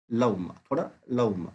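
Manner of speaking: لعمہ drawn out slowly, vowel between waw and hamza; slow vowel demo. Shown as a demonstration. Teacher modelling the hybrid sound for the class. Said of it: "ان کے بیچ والا لعمہ".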